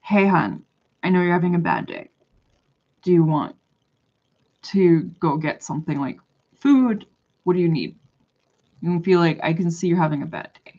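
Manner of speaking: unruffled, gentle de-escalation; calm. Pretend. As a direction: talk down an angry stranger calmly. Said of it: "I will calmly say".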